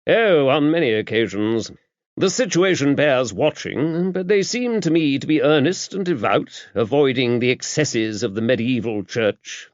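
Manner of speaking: put-on an older churchman explaining with brisk authority; bishop.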